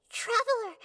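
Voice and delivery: calling out. Acted. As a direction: call out to find a lost friend. Calling out to a friend.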